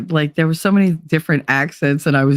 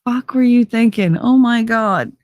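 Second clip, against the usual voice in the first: scolding herself; 7 semitones higher than usual. Retold or imitated. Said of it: "things where I'm like".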